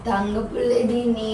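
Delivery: tender cooing. Real, not acted. Drunk woman cooing over upset child.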